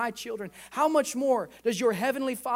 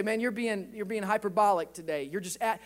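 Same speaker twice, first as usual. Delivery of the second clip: imagined objection; 3 semitones lower, 3 dB quieter than usual. Acted. Voices a listener's objection.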